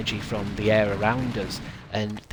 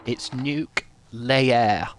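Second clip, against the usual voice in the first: slow, loud, drawn-out French candlestick; talking candlestick; 3 semitones higher, 5 dB louder, much slower than usual. Shown as a demonstration. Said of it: "like that candlestick from Beauty and the Beast".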